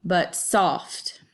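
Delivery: "but" light, "soft" stressed. Shown as a demonstration. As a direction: lean on "soft" after an unstressed "but". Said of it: "put your emphasis here".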